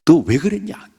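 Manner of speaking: high, loud snap of a question; sharp rebuke. Retold or imitated. King Abimelech scolding Abraham, high and loud. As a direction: bark the question at him. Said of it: "팍".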